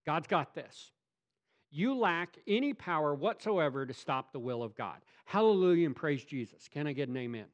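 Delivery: usual speaking voice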